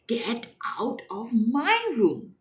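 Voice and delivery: put-on loud, slow child's shout. Child yelling at baby brother to get out. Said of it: "So I shouted".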